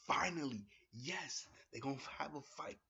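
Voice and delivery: loud, high burst of glee; excited fan. Retold or imitated. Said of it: "So I'm like".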